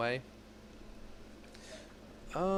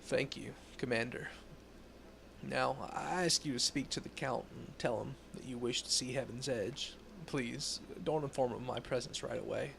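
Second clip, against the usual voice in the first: measured, serious investigator tone; stern Inquisitor voice; 3 semitones lower than usual. Acted. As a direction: read it like a grave inquisitor. Reads Inquisitor NPC dialogue.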